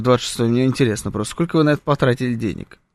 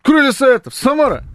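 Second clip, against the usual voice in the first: cheerleader; 9 semitones higher than usual. Pretend. Chanting for his new club.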